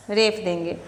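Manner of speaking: ordinary talk, nothing marked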